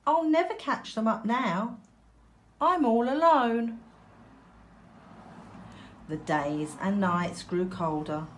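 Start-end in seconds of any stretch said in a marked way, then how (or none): 0.1-3.8 tearful duckling. A narrator's reading.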